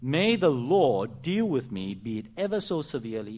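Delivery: loud, grave vow to Naomi; solemn loud oath. Acted. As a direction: proclaim the oath with full force. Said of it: "Please look at what she says to Naomi".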